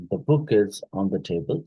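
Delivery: "book" stressed as the new information. Shown as a demonstration. Teacher shows stress shifting to the noun, BOOK emphasised. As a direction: lean on the noun "book", ease down through the rest. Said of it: "the book would be, um, uh, taking the stress shift".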